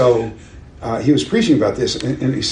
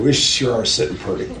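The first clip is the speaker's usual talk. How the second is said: laughing. Real, not acted. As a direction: quote it again through real laughter. Retold quip, repeated with amusement.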